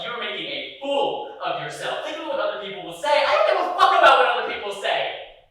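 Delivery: furious argument. Retold or imitated. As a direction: yell back at the boyfriend who mocked you all day. Heated quarrel with boyfriend.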